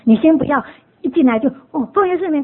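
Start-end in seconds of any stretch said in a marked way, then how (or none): 1.7-2.4 mock loud prayer. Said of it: "就大声这样".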